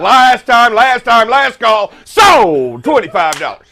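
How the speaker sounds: rapid-fire auctioneer chant, rising. Pretend. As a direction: rattle off the bids like an auctioneer. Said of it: "Let's do it".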